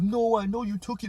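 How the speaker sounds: put-on high-pitched insistent child; put-on high whiny protest; mock accusing kid. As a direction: imitate an upset kid accusing. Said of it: "William's like".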